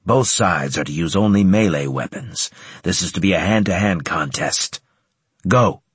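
gruff barked parade orders. Acted. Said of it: "Centurion Graves's voice ordered".

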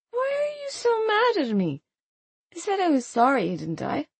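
put-on high, crying drunken plea; tearful whine. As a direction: whimper it on the edge of tears.

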